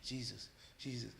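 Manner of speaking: soft, faint calling of Jesus in a half-sleep; mumbled Jesus. Retold or imitated. A man stuck in a nightmare softly murmuring Jesus. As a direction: murmur it as if trapped in a dream. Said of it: "like that, you know, saying that".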